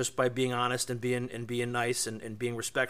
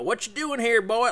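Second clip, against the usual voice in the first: higher, louder mock redneck challenge; mock hostile local; 9 semitones higher, 4 dB louder than usual. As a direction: imitate a suspicious local sizing up outsiders. Imagined hostile local confronting them.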